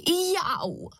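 sharp high yelp of pain; a slipping mum's sudden ouch; high short ouch; cry of pain. Acted. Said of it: "vykřikla".

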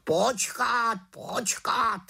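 high, urgent raven voice; raven interrupting. Acted. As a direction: cut her off sharply. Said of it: "skočil jí do řeči Havran". (havran jí skočí do řeči, naléhavě)

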